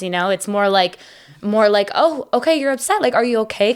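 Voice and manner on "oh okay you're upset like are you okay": higher-pitched, caring check-in; lightly voiced concern, as a supportive partner; imitating a partner gently checking in. Acting out a supportive fiancé's concern.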